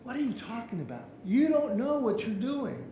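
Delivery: acted high-pitched indignation; mock-angry customer protest; mad customer. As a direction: challenge them like a mad customer. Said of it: "and he's mad".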